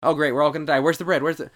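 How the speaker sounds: hammed-up panic over bread; mock whiny Israelite. Israelites grumbling about bread.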